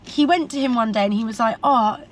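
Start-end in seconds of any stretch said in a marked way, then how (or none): 1.6-2.0 a light West Country burr on the retold plea; lightly voiced Gloucester accent; dad asking his posh boss, light Gloucester accent; imitating dad's Gloucester accent. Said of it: "That accent's so good".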